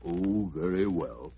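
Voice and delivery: low, slow, grudging elephant; reluctant elephant. Acted. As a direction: sigh it out low like a bored elephant.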